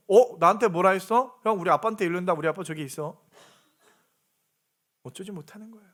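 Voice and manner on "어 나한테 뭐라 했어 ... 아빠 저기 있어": put-on fearless child. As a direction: play a kid boldly threatening to tell dad. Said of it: "두려울 게 없어". (겁 없이 큰소리치는 아이 흉내)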